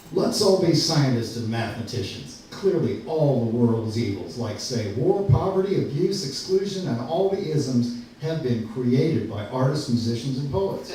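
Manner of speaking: mock-earnest sarcastic declaration. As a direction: lay out the absurd case with dry sarcasm. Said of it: "in as sarcastic a way".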